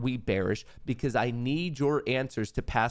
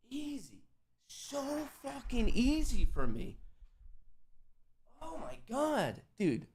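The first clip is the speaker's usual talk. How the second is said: high, slow boastful voice; smug triumphant brag; cocky gloat; 13 semitones higher, 5 dB quieter than usual. Real, not acted. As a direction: brag like it was nothing. Gloating after winning trade.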